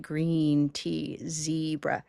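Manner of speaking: slow GREEN TEA ZEBRA with a lingering EE; teacher sounding out long EE; stretched vowels. Shown as a demonstration. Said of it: "You can hear that".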